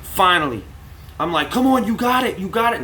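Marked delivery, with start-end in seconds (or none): 1.5-2.8 excited cheering. Retold or imitated. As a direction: cheer the quarterback toward the end zone. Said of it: "And now this, I'm saying it".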